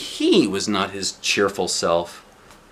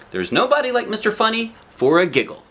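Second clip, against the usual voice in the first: higher, eager and sure; encouraging; 10 semitones higher than usual. Acted. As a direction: cheer her up with confidence. Mister Happy encouraging.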